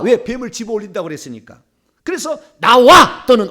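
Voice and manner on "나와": sharp, very loud order; command word. Shown as a demonstration. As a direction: fire out a single commanding word. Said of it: "이런 말을 써야 돼요".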